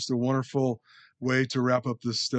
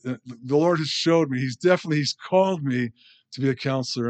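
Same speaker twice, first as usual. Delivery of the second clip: ordinary talk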